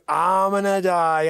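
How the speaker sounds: heroic vow. Acted. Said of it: "And he's like".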